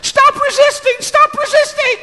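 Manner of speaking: shrieked police command, voice shot way up; high-pitched yelling. Retold or imitated. Trainee yelling at the woman he pinned, high-pitched. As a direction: yell it sky-high and loud, imitating a rookie. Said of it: "started yelling".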